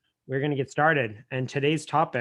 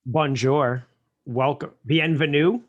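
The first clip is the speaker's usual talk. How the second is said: bad French accent; 3 semitones higher, 5 dB louder than usual. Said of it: "talking in French very poorly".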